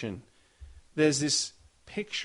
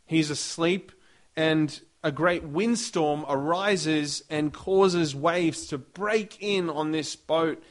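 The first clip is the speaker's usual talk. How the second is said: normal talking voice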